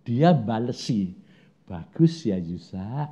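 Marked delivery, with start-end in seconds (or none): 1.6-3.1 slow, dry sarcastic echo. Retold or imitated. God echoing the preacher with dry sarcasm. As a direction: drawl it back with mock praise.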